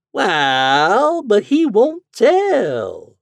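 high, loud, very slow drawl. A narrator's reading. Landlady drawling about the silent ghost. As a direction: stretch every word lazily. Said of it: "she drawled out".

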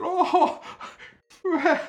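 very high, loud wail; sobbing boy. Acted. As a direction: wail through tears.

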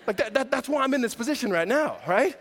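laughing through the line. Real, not acted. Preacher laughing at his own spanking joke to the congregation, laughing. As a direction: chuckle while talking.

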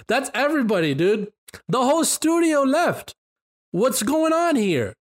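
wait, the whole studio left?; surprised. Real, not acted. Shocked at mass departures.

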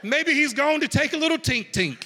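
giggling through the words; laughing. Real, not acted. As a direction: laugh as you say it.

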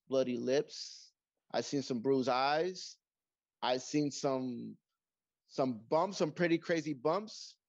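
lightly played referee promo; slow, deliberate tough-guy promo; wrestling promo. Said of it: "I want you to cut a promo".

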